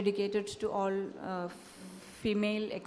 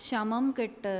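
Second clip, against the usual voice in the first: poetry recital; much faster than usual. Acted. Poet reciting her poem to an audience, measured recital. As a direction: let each image land before moving on.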